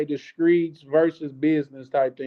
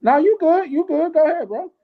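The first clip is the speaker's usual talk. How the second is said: insistent; 12 semitones higher, 6 dB louder than usual. Real, not acted. Urging the other to speak.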